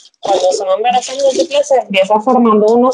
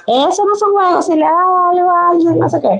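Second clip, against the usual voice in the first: imitating scolding dad; 8 semitones higher than usual. Father scolding in the story.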